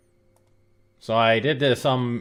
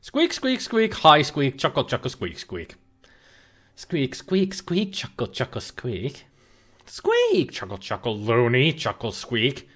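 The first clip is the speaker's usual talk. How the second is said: pitched-up critter squeaking, trailing off; ferret squeaks. Acted. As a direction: chatter like a giggling little ferret. Voicing ferret, pitch leaps high.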